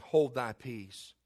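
low, slow, soft stern rebuke; Jesus rebuking the demon in the synagogue. Acted. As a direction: calmly command the demon to be silent. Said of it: "Jesus rebuked him, saying".

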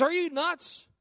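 high-pitched mock disbelief; retold "you can't be serious" reaction; imitated incredulous wife. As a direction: question leaping way up in pitch, as an exasperated wife. Acts out wife's repeated disbelief.

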